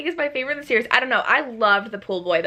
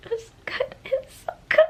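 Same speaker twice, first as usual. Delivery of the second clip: choked-up crying; 11 semitones higher, 7 dB quieter than usual. Real, not acted. Overwhelmed by the book's ending.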